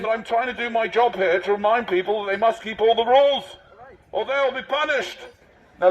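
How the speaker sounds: lightly voiced officious marshal addressing the public; a touch of a self-important volunteer marshal; pompous covid marshal. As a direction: announce the rules like a smug official.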